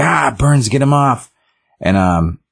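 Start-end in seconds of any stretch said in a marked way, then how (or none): 0.0-1.3 high-pitched mock yelp of burning pain; hammed-up "it burns" panic; mock pained cry. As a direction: act out a burn victim's panicked plea, lightly. Retold burned detective cries out.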